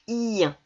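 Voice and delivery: "ien" with a long i gliding into nasal in; drawn-out I. Shown as a demonstration. Teacher showing how I E N sounds, i drawn out. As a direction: stretch the i of "ien", then land on the nasal. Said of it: "ça se prononce".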